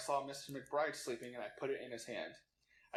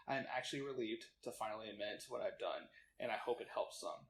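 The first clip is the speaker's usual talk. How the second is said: quiet, earnest read-out confession; solemn confession reading; 3 dB quieter than usual. Acted. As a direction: read it like a guilty statement. Reading a mock confession aloud.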